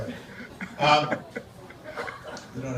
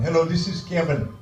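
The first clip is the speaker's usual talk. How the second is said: lightly put-on Indian accent; Indian call-center accent; 2 semitones higher than usual. Call-center boss coming on the line, Indian accent. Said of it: "Then the other guy comes on".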